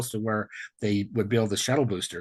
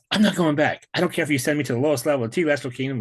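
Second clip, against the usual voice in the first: retold defiant outburst, higher and louder; upset defiance; 5 semitones higher, 3 dB louder than usual. Telling the Lord he won't go back, retold upset defiance. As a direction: dig in and refuse to go. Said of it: "I kind of blew up a little bit".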